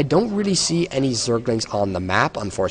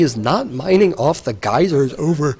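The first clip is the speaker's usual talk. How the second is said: yawning; 3 semitones higher than usual. Real, not acted. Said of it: "Sorry about that yawn".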